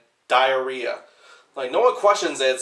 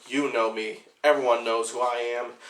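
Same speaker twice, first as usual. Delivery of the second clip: lightly imitated possessed woman, lower pitch; a hint of demonic possession, pitched down; 4 semitones lower, 3 dB quieter than usual. Possessed girl answering the priest who asks who she is, lightly mimicked possessed voice. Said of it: "her possessed voice says".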